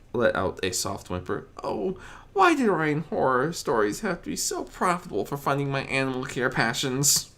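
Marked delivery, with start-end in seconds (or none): 1.6-7.3 high, lightly whiny lament; a mild whimpering grumble; fretful Fluttershy. Acted. Fluttershy complains about her horror stories, mildly whiny.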